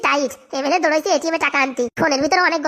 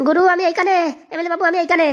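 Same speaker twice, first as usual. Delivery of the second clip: calling out; 2 semitones higher than usual. Acted. Hanging captive calls to his boss.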